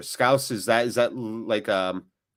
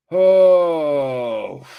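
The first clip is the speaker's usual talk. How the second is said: surprised oh; 4 semitones higher, 9 dB louder than usual. Real, not acted. Chance on goal, sudden shout.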